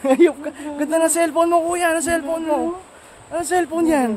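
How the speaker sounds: high, loud playful banter; excited. Real, not acted. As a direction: tease him happily, quick. Joking with the local guide.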